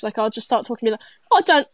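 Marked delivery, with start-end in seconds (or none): 1.3-1.7 mock British accent, louder and higher; American faking British. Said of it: "someone that's American trying to be British".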